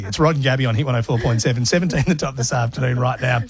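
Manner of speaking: lightly voiced upbeat radio host patter; mock breezy on-air link, rattled off. Host parodying a commercial radio DJ reading the weather. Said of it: "I can't do a D J shouting things".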